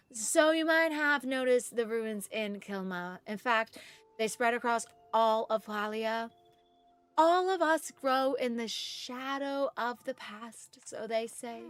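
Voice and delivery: slow, solemn character reading; Viridian game voice. Acted. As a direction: tell of the past ruins slowly and gravely. Reads character dialogue.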